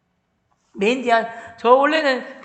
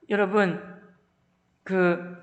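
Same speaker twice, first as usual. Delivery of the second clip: ordinary talk, nothing marked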